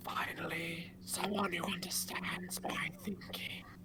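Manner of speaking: deep, rough, rasping, hushed demon growl. A shadow demon speaks into a character's mind, deep, raspy demon voice. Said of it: "A deep, raspy voice".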